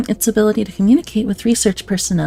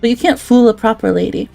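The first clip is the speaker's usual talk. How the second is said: louder, hammed-up Aussie-British accent; British-adjacent accent; 3 dB louder than usual. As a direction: read it like a cheeky bloke down the pub. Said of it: "as the resident British adjacent".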